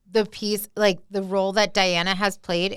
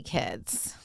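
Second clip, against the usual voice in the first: whispered aside; 10 semitones lower, 11 dB quieter than usual. Real, not acted. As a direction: whisper the last word.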